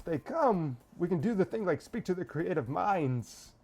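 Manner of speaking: Schwarzenegger impression. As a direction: put on a rough Schwarzenegger-like Austrian accent. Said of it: "switch between Christopher Walken and Arnold Schwarzenegger".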